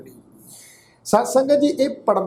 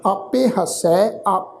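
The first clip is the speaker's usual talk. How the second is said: slow, measured Gurbani recitation; scripture recitation; much slower than usual. Acted. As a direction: recite each phrase deliberately, with pauses and drawn-out vowels. Recites scripture between explanations.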